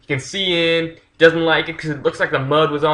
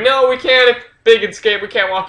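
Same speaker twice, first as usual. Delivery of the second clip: put-on scared little kids; 9 semitones higher than usual. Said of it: "And they're like".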